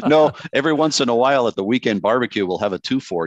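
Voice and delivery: Canadian accent, hammed up for a laugh; mock Canadian accent. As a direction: put on a joking Canadian accent. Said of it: "I have Canadians in my family".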